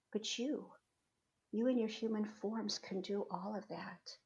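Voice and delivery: soft, hushed divine message, with long pauses; voice of Spirit. Retold or imitated. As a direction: speak gently as an unseen spirit, unhurried. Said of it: "And Spirit said".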